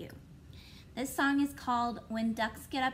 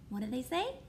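ordinary talk, nothing marked

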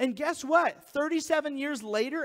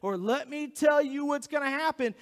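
raised, insistent mock politician; stump-speech warning, pitched up and forceful; campaigning politician; 4 semitones higher, 3 dB louder than usual. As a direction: pressure the crowd like a fearmongering candidate. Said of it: "look at liberals and go".

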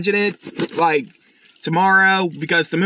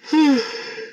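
tired yawn; 7 semitones higher than usual. Real, not acted. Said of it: "please excuse me yawning".

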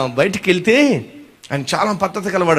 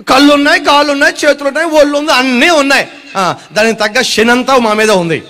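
high, loud whining complaint; mock whining; 7 semitones higher, 4 dB louder than usual. Ungrateful people to God, mock whine.

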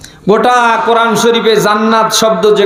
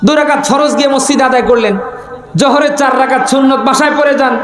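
higher, shouted exhortation; preaching shout; 4 semitones higher than usual. Real, not acted. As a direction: call it out to the crowd. Preacher urging prayers at home.

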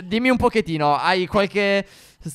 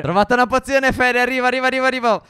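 higher-pitched, eager announcement; excited calling out; 6 semitones higher, faster than usual. Pretend. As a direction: call out that help is on the way. Calls Fere after finding potion. (richiamo eccitato)

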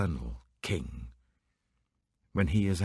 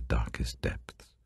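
whisper; 6 semitones lower, slower than usual. Acted. Psalm reading, darkest depths.

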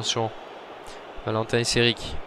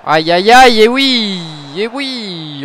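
dismayed groan; 6 semitones higher, 7 dB louder, much slower than usual. Real, not acted. Conceding a chance.

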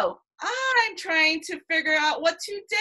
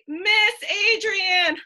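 mock pain cry; 4 semitones higher, 6 dB louder, much slower than usual. Pretend alligator bites teacher.

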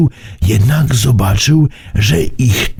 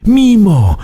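stammering; 9 semitones higher, 3 dB louder than usual. A narrator's reading. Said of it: "wyjąkał Burbi".

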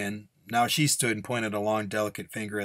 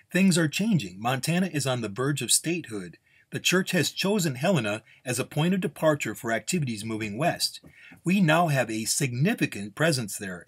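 higher, emphatic official explanation; firm nun; 5 semitones higher than usual. Acted. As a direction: shut down further questions. Nun closes the subject.

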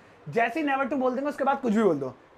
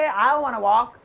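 slow demo; 5 dB louder, much slower than usual. Shown as a demonstration. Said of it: "मुझे तुमसे बात करनी ही नहीं".

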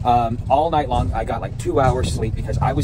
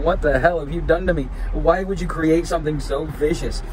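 mock yell at creation; 4 semitones higher than usual. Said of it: "I'm yelling".

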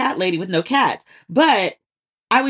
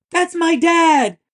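much higher, louder, very slow tearful cry; imitating a sobbing son; 8 semitones higher, 4 dB louder, much slower than usual. Host re-enacting the son standing up crying for his dad. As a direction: stretch it out like a proud kid in tears. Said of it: "sobbing really".

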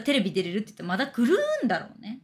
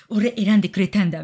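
louder, mock-delighted older host; imitated delight; 6 dB louder than usual. Older host delighted at being chosen, mock joy. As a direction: play the host thrilled to be picked. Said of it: "そのおっさんすごい喜んで".

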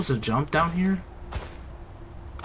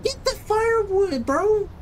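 shouting; slower than usual. Real, not acted. Yelling at game character.

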